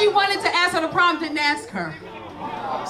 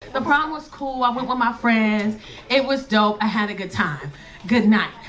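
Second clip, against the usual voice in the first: curt daughter; 6 semitones lower than usual. Retold or imitated. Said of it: "That's not Casey".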